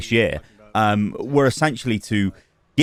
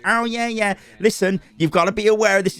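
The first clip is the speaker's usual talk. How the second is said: mock warning; 8 semitones higher than usual. Voices an imagined developer warning.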